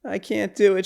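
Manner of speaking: high, soft mock cry for mom; retold scream, hushed. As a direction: plead helplessly in a small, high voice. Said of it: "She screams".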